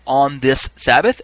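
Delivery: a restrained call to a crowd; reaper crying out. Retold or imitated. Reaper asking a third time, crying out. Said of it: "cry out".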